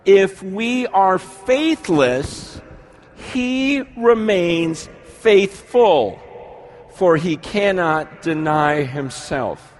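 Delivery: slow, solemn Bible reading over music; scripture reading. Acted. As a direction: read the verse slowly, letting each word land.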